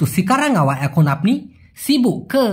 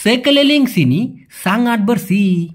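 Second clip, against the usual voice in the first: Sekeliling sini sangat bersih said very slowly; slow demo; much slower than usual. Shown as a demonstration. Teacher models the Malay sentence slowly. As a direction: lay out each Malay word slowly. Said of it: "দেখুন, এরকমই হয়।".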